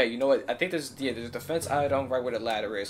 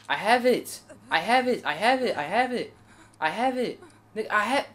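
high, loud, repeated protest; raised high-pitched insistence; exasperated insisting; 9 semitones higher, 7 dB louder than usual. Real, not acted. Insisting he has the item.

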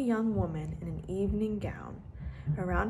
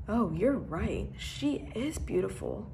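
slow, hushed wonder; awed gasp; slower than usual. Acted. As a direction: breathe it in amazement. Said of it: "she gasped".

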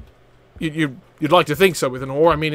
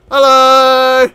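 loud, raised, stretched hello; calling out greeting; 6 semitones higher, 8 dB louder than usual. Pretend. Player barging in on the pirates' evening, calling out greeting. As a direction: holler a mock-cheery greeting.

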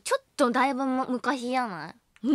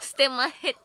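laughing. Real, not acted. Laughs at own bad plug.

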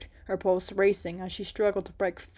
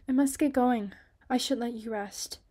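put-on higher, louder hurried girl; flustered hurry; 4 semitones higher, 4 dB louder than usual. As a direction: blurt it out and rush off.

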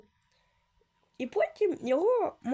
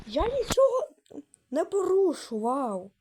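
mock protest; 4 semitones higher, slower than usual. Pleading innocence, voice jumps up.

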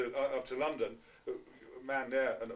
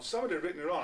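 Somebody hit firmly to correct; stress on somebody; 6 semitones higher, much faster than usual. Real, not acted. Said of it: "I didn't say he'd written it on".

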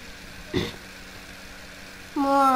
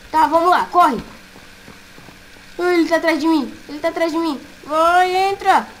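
being chased; 2 semitones higher, 4 dB louder than usual. Real, not acted. Animatronic chasing him.

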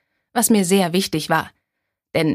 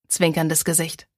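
ordinary delivery, nothing marked

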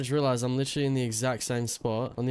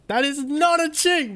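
high mocking voice; 12 semitones higher, 5 dB louder than usual.

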